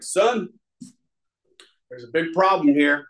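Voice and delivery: lightly voiced big biker setting him straight; stern old biker. Old biker scolds the angry newcomer, lightly voiced and stern.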